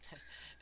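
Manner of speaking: very quiet, breath-only chuckle; soft chuckle. Acted. Scientist amused by the creature's name tag, soft chuckle. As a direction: chuckle faintly to yourself. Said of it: "he's gonna kinda chuckle".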